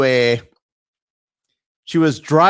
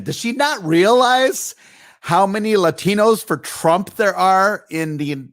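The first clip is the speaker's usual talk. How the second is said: how can she not know, pitched way up; incredulous rant; 6 semitones higher than usual. Real, not acted. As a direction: voice jumps high in disbelief. Mocks the crying woman.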